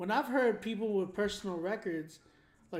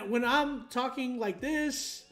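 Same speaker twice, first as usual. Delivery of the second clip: animated delivery rising high and stretched; changing pitch; 4 semitones higher, slower than usual. Shown as a demonstration. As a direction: show off vocal character, pitch climbing. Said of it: "my pitch is, like, changing".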